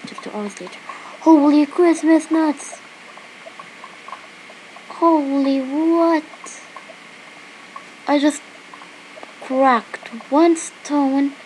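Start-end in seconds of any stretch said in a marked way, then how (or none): 1.2-11.3 surprised. Real, not acted. Shocked by long wait.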